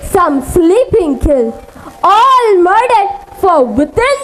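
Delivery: measured Shakespeare monologue, phrase by phrase; dramatic recitation. Acted. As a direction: recite it as a king's tragic speech.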